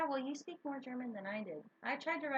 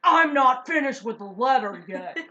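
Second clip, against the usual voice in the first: much louder mock-indignant outburst; exasperated yell; 13 dB louder than usual. Woman retelling her interrupted love letter, exasperated yell.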